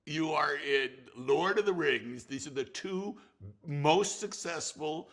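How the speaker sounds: half-mock pep talk to a friend; retold exasperated rant. Director urging an actor friend, emphatic and exasperated. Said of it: "I was just saying".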